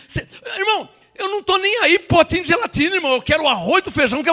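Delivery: mock believer. Mocks a believer wanting gelatin.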